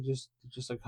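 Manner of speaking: ordinary talk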